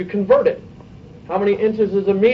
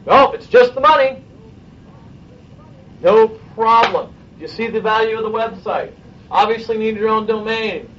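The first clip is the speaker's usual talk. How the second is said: upbeat salesperson; 4 semitones higher than usual. Acted. Role-playing salesperson closing a client.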